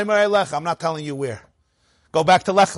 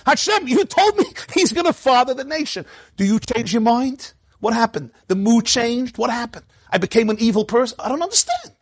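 higher, complaining voice that climbs to a very high end; pleading questioner; 3 semitones higher than usual. Acted. Avram voiced questioning Hashem, rising and bewildered. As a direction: press God with baffled questions.

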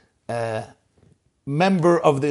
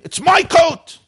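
high, loud possessive yell; father's indignant mock scream; retold scream; 11 semitones higher, 6 dB louder, slower than usual. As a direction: shout it high, claiming what's yours. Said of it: "The father was screaming".

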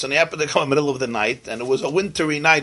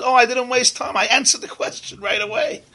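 higher, laughing through the words; teacher laughing at his own answer; amused chuckle; 10 semitones higher than usual. Acted. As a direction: chuckle as you reveal the joke.

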